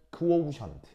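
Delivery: "크오우션트" with "크" before "워우". Shown as a demonstration. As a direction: say "크오우션트" keeping the "크" distinct. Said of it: "오 합쳐서". ("크오우션트"에서 "크"를 살려 발음)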